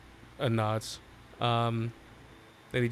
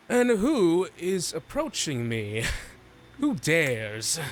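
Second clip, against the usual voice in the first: higher and slow, a theatrical who dares; mock grand challenge; 4 semitones higher, slower than usual. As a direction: ham it up like a pompous lord. Professor challenges the approaching party.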